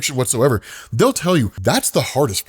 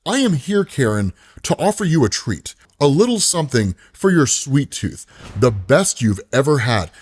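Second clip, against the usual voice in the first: tempting ice cream man. Acted.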